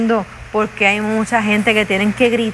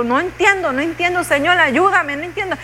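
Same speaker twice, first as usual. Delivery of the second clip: frustrated plea; 6 semitones higher than usual. Retold or imitated. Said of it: "yo la cambio porque digo".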